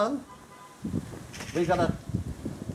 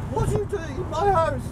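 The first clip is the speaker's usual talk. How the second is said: retold angry demand; 11 semitones higher than usual. Woman charging out, polo stick.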